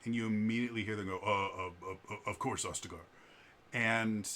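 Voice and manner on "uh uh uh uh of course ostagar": terrified guards. Acted. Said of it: "they are terrified of her".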